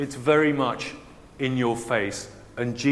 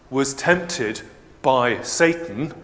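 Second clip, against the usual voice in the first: weight on "was", slow "by Satan"; stress on was; slower than usual. Shown as a demonstration. Preacher stressing that Jesus "was" tempted, slow and firm. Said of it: "tempted is not that simple a word".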